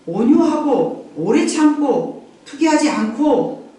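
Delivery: slow, measured scripture reading; slow solemn recital of verses; scripture recitation. Real, not acted. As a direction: recite each phrase deliberately.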